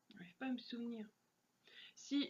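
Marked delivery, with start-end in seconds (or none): 0.1-1.1 whispering. Real, not acted. Muttering while trying to recall.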